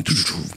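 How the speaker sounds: imitated praying. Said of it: "תחשוב, מאה עשרים מתפללים".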